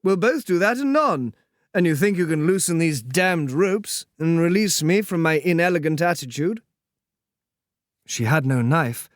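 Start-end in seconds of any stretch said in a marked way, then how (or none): 0.0-6.6 languid dandy greeting. Acted. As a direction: stretch it out lazily and kindly. Percy's voice held.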